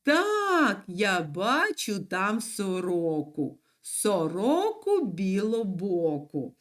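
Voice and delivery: put-on slow, measured reply for a boy; lightly voiced boy. Boy answering about the magpie, lightly voiced. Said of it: "а другий відповідає".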